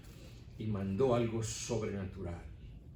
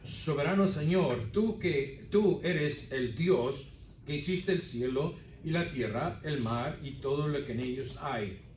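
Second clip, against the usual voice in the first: voicing the disciples' prayer with raised voice; 3 semitones higher than usual. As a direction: cry out to the Sovereign Lord. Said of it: "unánimes la voz a Dios y dijeron".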